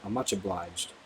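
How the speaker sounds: a hint of an upper-class lady; lightly voiced refined lady. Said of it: "in a voice of extreme refinement".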